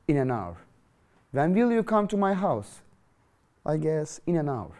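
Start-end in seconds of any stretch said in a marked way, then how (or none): 1.3-2.8 raised question voice. Shown as a demonstration.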